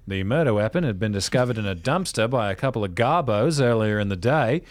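lightly done Australian newsreader; deadpan Aussie news read; Australian accent. Retold or imitated. Host imitating an Australian news report in an Aussie accent. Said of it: "That's way better than my Australian accent".

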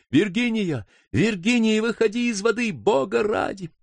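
begging her to get out; pleading call. Acted.

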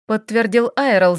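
usual speaking voice

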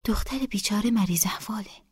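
pitying whisper; whispered aside. A narrator's reading. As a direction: whisper it so the girl can't hear. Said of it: "نسا آهسته گفت".

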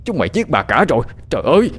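horrified outcry. A narrator's reading. Master accusing servants of killing his wife, horrified outcry. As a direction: cry out in shock, building to the end. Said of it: "Ông Chánh kêu lên".

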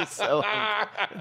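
high, drawn-out, giggly laugh; helpless giggle on the words. Real, not acted. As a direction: say it slowly through high-pitched laughter. Giggling over the show's hunk.

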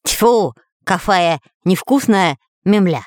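spitting out dirt while talking; words mangled by a mouthful of earth; mouth full. Acted. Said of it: "Отплёвываясь".

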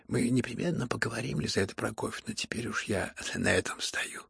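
soft, near-whispered thanks; quiet speech. Acted. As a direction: speak hushed, drained of strength. Тихий Ипполит. (тихо, почти шёпотом)

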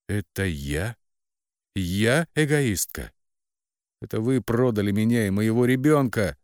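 put-on daughter shouts at her parents who sold her child; shouting. A narrator's reading. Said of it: "закричала".

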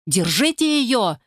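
high, slow shout. Acted. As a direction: yell to hold her. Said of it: "заорал кто-то".

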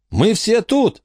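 high, carrying shout at the phone. Acted. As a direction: call out so the phone picks it up. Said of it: "закричал Миллард".

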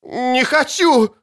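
slow high desperate yell; wounded man screaming no; man down shout. A narrator's reading. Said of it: "заорал раненый".

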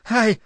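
short high-pitched "ai"; pained yelp. A narrator's reading. Linda hurt when the boy hugs her, pained yelp. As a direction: yelp sharply at a painful touch. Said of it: "визгнула Линда".

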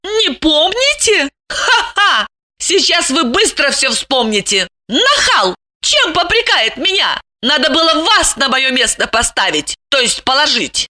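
high, indignant woman's voice; scoff, then scold him; scornful scolding. A narrator's reading. Lipochka threatens the forgetful intruder, scornful.

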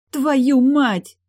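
a voice finally breaking out in a scream; shouted curse. A narrator's reading. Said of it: "Наконец у Тильды прорезался голос".

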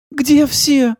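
high, trembling question. A narrator's reading. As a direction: ask with a shaking voice. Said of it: "с дрожью в голосе спросила". (с дрожью в голосе)

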